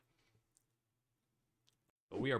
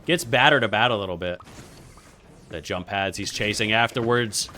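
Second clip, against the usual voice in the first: steady esports commentary rising on the action; play-by-play; 8 dB louder than usual. Pretend. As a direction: call the match live, lifting for each hit. Live match commentary.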